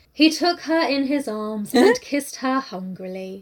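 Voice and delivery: slow, measured preacher's delivery; mock sermon reading. Imitating audiobook narrator to co-host, slow sermon-like reading. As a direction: read the love scene like a solemn sermon. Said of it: "read it like a fucking sermon".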